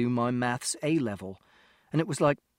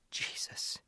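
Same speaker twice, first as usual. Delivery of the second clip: breathy whispered curse; exasperated mother whispering to herself; whispered exasperation; 12 dB quieter than usual. Acted. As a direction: mutter it almost soundlessly, at the end of your rope. Exasperated mother under her breath.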